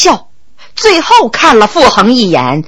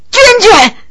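high pained shout of her name; anguished cry; 10 semitones higher than usual. Acted. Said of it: "傅恒痛叫一声".

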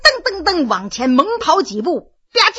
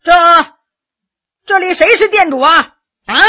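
loud, raised call into the shop; old man hollering for the owner; 4 semitones higher, 5 dB louder than usual. Acted. 老人冲店里大声喊店主.

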